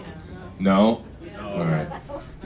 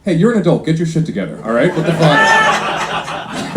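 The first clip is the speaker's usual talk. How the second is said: acted fed-up wife telling off her husband; mock outrage, rising at the end; exasperated scolding; 3 semitones higher than usual. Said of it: "It's really like".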